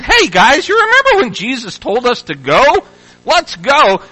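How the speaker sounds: put-on eager call to the guys; mock eager rallying. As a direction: playfully imitate someone rounding up the group. Mock quote of eager believers.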